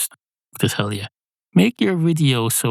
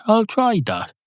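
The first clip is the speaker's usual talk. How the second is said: high cat voice; 11 semitones higher than usual. Acted. Cat voiced, repeated higher.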